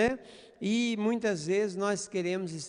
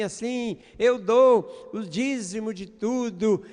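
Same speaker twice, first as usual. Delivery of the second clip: mildly raised voice imitating a boastful prayer; showy, self-exalting proclamation, not a real shout; mock loud prayer; 3 dB louder than usual. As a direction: reel off good deeds for all to hear. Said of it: "falando em voz alta e gritando".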